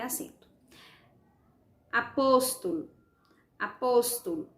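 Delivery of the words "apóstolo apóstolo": "Apóstolo" with a leaning, lengthened POS; stress on POS. Shown as a demonstration. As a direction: lean on the second syllable of "Apóstolo". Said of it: "o pos vai ser acentuado".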